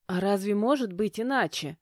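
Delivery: plain reading voice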